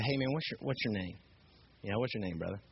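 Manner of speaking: soft, low, easygoing approach; gently defuse him, keep it casual; calming. Retold or imitated. Trying to cool down an agitated stranger, calming. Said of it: "I tried to cool things down".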